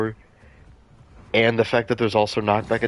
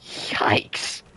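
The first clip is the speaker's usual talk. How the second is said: whispered yikes; 4 dB quieter than usual. Real, not acted. Whispered reaction in game.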